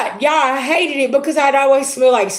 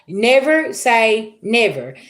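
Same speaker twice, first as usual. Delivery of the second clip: each word drawn out and weighted, "Never say never" slow; slow emphatic saying; much slower than usual. Retold or imitated. Telling viewers a lesson, slow and weighty. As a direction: stretch out "Never say never" like a warning. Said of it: "I was like".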